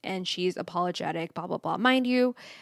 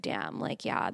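put-on low boyfriend voice; 13 semitones lower, 8 dB quieter than usual.

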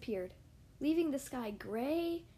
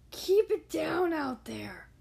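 slow, louder grumpy bear growl; deep growly voice; 2 semitones higher, 6 dB louder, slower than usual. Acted. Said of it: "a deep, growly voice".

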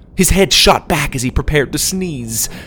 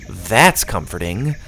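sarcastic; 3 semitones lower, slower than usual. Acted. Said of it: "Susie said sarcastically".

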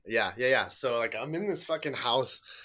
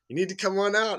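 loud, much higher command; sheriff yelling; 10 semitones higher, 5 dB louder than usual. Retold or imitated. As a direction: yell it like a deputy ordering someone out. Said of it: "And he yells again".

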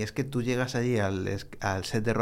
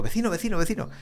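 calling the neighbour; 8 semitones higher, faster than usual. Retold or imitated. Calling the neighbour who took his garage spot. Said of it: "Y digo".

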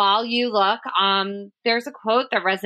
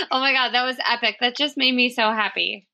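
laughing; 3 semitones higher than usual. Real, not acted. Delighted after reading.

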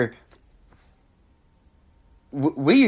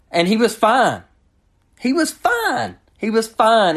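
exasperated insisting; 9 semitones higher than usual. Real, not acted. Host insisting to referees the player was fine, exasperated. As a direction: hammer home that he was fine.

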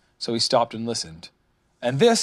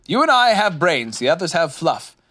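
loud, high, brisk address; short; 6 semitones higher, 5 dB louder than usual. A narrator's reading. Rabbit tells Owl they must think, short. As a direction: get straight down to business. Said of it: "said Rabbit shortly".

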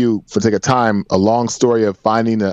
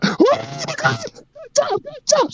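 very high falsetto cheering; hammed-up, high-pitched congratulations; mock gushing praise; slower than usual. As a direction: parody an overexcited cheerleader in a squeaky-high voice. Mocking overexcited praise she did not give.

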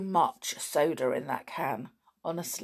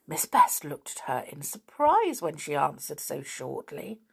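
put-on reading a chapter aloud to children; gentle storytelling voice for kids; story narration. A narrator's reading. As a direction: tell it like a bedtime storybook. Reads a school story aloud.

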